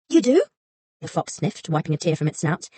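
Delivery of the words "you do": high, small frightened fox voice; timid little fox. A narrator's reading. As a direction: play a meek fox shrinking back. Fox sniffling.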